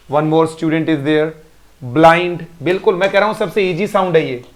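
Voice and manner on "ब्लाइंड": ब्लाइंड with the "ai" sound stretched; model word. Shown as a demonstration. Teacher models the ai vowel for pupils. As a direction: say ब्लाइंड clearly for the class. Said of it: "अब ब्लाइंड को लिखेंगे".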